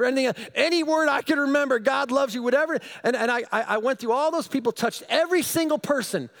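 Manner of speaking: high, loud, breathless telling; excited rush. Retold or imitated. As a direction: pour it out all worked up. Excited retelling, frustrated at God.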